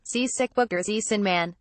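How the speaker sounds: "Sie sick book" with a Z in place of each th; imitating a foreigner's missing th. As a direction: say "Sie sin man" as a German would, no th sounds. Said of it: "French and Germans and don't typically say".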